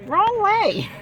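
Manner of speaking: loud, high-pitched real yell; upset shout. Real, not acted. Upset woman calling out that it's the wrong way, shouting. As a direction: yell it out, rattled. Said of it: "can you tell I'm upset".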